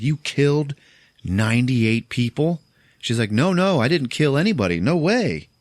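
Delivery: a shocked accusation met by panicked denial; alarmed exclaiming. Retold or imitated.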